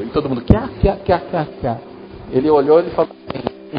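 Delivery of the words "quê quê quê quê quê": imitated scoffing cackle, kept light; mock group laughter. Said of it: "a gente riu". (imitando gargalhada de deboche)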